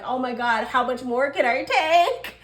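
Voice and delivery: mock the earth signs breaking down, laughing through it; overwhelmed laugh-cry. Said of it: "all the earth signs are like".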